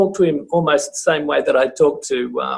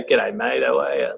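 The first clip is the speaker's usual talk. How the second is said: lower, offhand blokey hello; casual greeting to guys; 3 semitones lower than usual. Shown as a demonstration. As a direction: toss out a low, matey greeting. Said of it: "you don't go".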